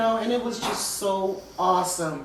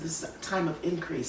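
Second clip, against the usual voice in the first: softer and quicker, a calm inner voice; repeating God's gentle words with a softer voice; God's quiet reply; 6 dB quieter, faster than usual. Retold or imitated. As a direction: say it softly and quickly as the quiet word from God. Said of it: "And he said".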